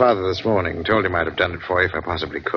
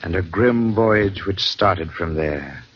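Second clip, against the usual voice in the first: measured radio announcer read; announcer introduction; slower than usual. Acted. Announcer introducing the evening's tale, measured. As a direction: present tonight's tale with gravity.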